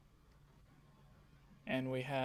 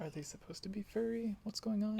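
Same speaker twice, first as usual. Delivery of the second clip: confused surprise; 7 semitones higher than usual. Retold or imitated. Imitating confused first viewers.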